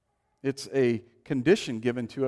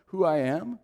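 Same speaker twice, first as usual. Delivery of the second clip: proud boast; 5 semitones higher than usual. Retold or imitated. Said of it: "put on our pride".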